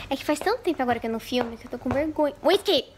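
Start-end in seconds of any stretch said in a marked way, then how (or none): 2.4-2.8 calling out. Real, not acted. Calling the cat.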